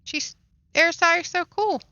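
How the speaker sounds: high, fast mock enthusiasm; sarcastic gushing. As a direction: gush about it with an eye-roll. Mocking the Erisai's love of themselves.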